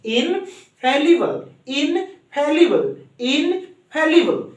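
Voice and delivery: slow, drawn-out इनफैलिबल with a rise then a fall; say-along drill. Shown as a demonstration. Teacher asks class to say it along, slow drill. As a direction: stretch इनफैलिबल out for repeating. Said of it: "एक बार हमारे साथ बोलिए".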